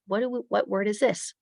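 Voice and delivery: put-on teacher quizzing young pupils; teacher to class. Shown as a demonstration. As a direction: put the question to a class of kids. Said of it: "I might say to my class".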